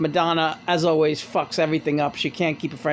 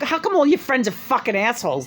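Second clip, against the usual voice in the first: mock insult; 5 semitones higher than usual. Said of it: "This is the way she's talking".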